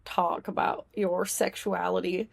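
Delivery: lightly Southern Puritan ancestor; understated Southern voice, softly admonishing from the heavens; Southern accent. Acted. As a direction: scold with a hint of a Southern accent. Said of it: "why I made her Southern".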